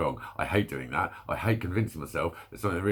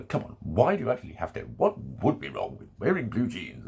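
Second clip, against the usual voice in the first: lightly voiced reasonable adult. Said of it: "would sit down and go".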